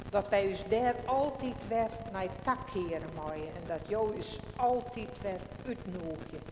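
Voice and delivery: slow, solemn prayer voice. Acted. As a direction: pray aloud with pauses. Pastor leads congregational prayer.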